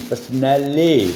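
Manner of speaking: "پرسنل" drawn out slowly, per-s-nal-le; syllable by syllable. Shown as a demonstration. Teacher building the word for students, "پرسنل" slowly in syllables. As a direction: stretch each syllable of "پرسنل" through to a long final le. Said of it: "syllable ہے جی".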